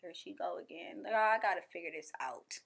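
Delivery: soft resigned self-talk; weary whisper. Retold or imitated. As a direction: mutter it under your breath, tired of yourself. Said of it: "I just be like".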